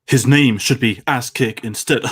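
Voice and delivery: slow Adam West-style clipped delivery, lightly voiced; Big Daddy impression. Host reading the quote as Nicolas Cage. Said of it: "basically is Adam West Batman".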